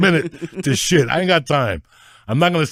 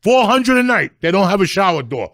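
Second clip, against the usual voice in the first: ranting; 2 semitones higher than usual. Real, not acted. Repeated hotel rant.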